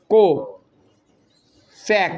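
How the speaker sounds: "કોસેક" stretched very slowly with a rising end; drawn-out word. Shown as a demonstration. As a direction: drag "કોસેક" out for the class. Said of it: "stretched teaching word".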